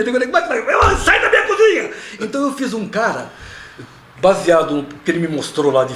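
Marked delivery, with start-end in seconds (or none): 0.3-1.9 high shouting Italian chef; Italian accent. Acted. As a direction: chase them out like an Italian chef. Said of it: "sotaque italiano".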